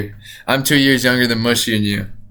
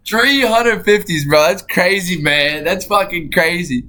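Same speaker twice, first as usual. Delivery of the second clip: higher-pitched amazed reaction; 5 semitones higher than usual. Real, not acted. Amazed at the money total.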